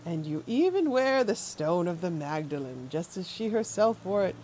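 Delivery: lightly voiced sinister old man, syrupy; a hint of a creepy gentleman. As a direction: purr it like a courteous creep. Voicing creepy NPC.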